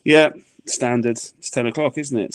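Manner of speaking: matter-of-fact shrug in the voice; unbothered wife. Retold or imitated. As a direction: treat it as utterly routine. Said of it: "She was just like".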